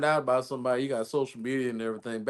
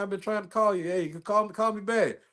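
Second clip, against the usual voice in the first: voicemail lover; 6 semitones higher than usual. Acted. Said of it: "through the voicemail".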